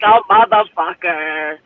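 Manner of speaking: low, slow groaned curse; mock grumble. Host voicing her twitchy knee, low slow groan. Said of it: "my fucking knee goes like".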